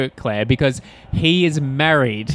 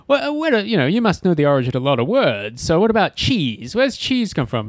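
interviewer voice; 5 semitones higher than usual. Retold or imitated. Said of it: "Carl Reiner plays an interviewer".

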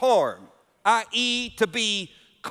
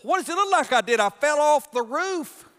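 raised, louder irritated comeback; retold exasperated retort; 7 semitones higher, 4 dB louder than usual. Husband on the roof snaps at his wife, loud and exasperated. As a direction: snap back at the obvious question, slowing on the last words. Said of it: "but I said".

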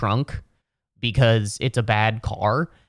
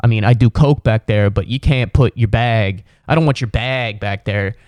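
dismissive driver; 5 dB louder than usual. Retold or imitated. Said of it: "And he's just like".

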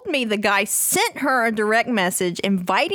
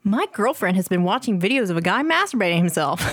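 announcer voice; faster than usual. Real, not acted. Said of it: "reading this in your, like, announcer voice?".

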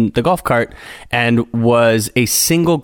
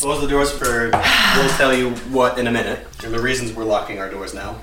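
tiny squeaky mouse; 4 dB quieter than usual. Pretend. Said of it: "you can't talk like a mouse".

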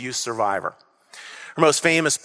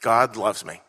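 said softly together; 6 semitones lower, 4 dB quieter than usual. Real, not acted. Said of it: "please say it all together".

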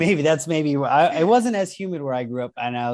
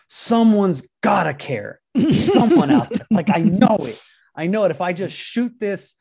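desperate excited plea; 5 semitones higher, 4 dB louder than usual. Retold or imitated. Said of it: "he was like".

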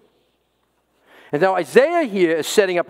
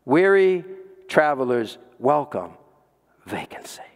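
savoring the sign, fading; 4 semitones lower than usual. Shown as a demonstration. Sign repeated, savoured.

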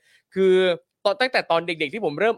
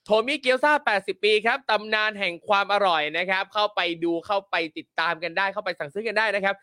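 ad read; 3 semitones higher than usual. Acted. Reads sponsor ads.

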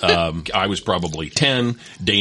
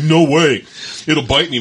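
put-on higher, louder little-kid refusal; scared toddler; 7 semitones higher, 5 dB louder than usual. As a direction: mimic a frightened four-year-old. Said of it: "He says".

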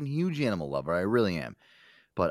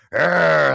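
loud, higher mock growl; imitated dog growl; 4 semitones higher, 8 dB louder than usual. Brother's Chihuahua growling at him, mock growl. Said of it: "he'll just sit there and go".

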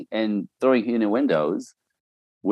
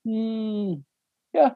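a hesitant hum, then a higher reluctant yeah; lightly voiced wife who means no; imitating wife's reluctant yes; 11 semitones higher than usual. Wife in front of her friends, a mock reluctant hmm yeah. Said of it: "And she goes".

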